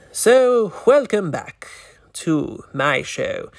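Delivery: Vincent the Vampire. Acted. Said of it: "Vincent, you can't claim it like that".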